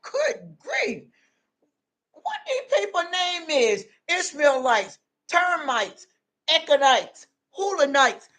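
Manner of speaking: retold bafflement at strange Bible names; lightly acted grumble, listing each name separately; mock exasperation. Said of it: "I was like".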